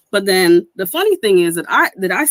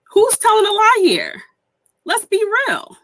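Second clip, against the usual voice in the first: calling out; 12 semitones higher, 3 dB louder than usual. Real, not acted. Calling out a lie.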